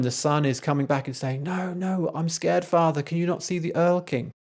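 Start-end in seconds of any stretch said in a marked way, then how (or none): 1.4-4.3 put-on frightened child pleading, pitched higher; a boy begging his father, voice climbing higher in fear; scared boy, higher. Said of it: "The son's voice keeps getting higher and higher".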